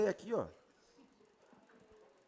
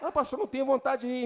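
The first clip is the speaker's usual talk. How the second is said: reluctant believer; 4 semitones higher, faster than usual. Retold or imitated. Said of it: "começa a rir".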